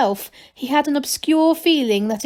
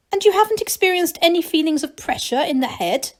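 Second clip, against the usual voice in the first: careful; 7 semitones higher than usual. A narrator's reading. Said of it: "said the Baroness carefully".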